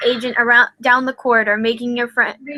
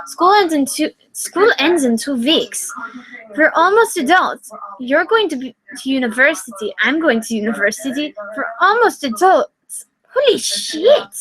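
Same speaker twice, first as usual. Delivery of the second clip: panicked rant. Acted. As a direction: realise you're growing up. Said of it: "he shouted".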